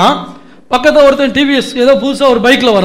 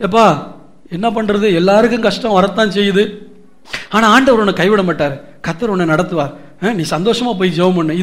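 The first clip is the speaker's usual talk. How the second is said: hollow consoler; 5 dB quieter than usual. Retold or imitated. Voicing an empty consoler.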